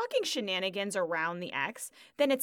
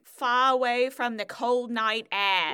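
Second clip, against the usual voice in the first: slow Cockney spoken lyric; imitated Cockney; 5 dB louder, slower than usual. Quoting her spoken song lyrics, imitated Cockney. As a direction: say the lyric slowly in mock Cockney. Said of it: "she goes really Cockney".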